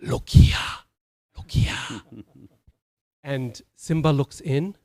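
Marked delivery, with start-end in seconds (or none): 0.0-0.5 loud, voiceless rasp; playful cartoon-monkey character voice; Rafiki's accent. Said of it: "in his wonderful accent". 1.4-2.0 hushed, voiceless rasp; softer echo in a cartoon-monkey accent; whispery accented monkey voice; Rafiki's accent. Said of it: "in his wonderful accent".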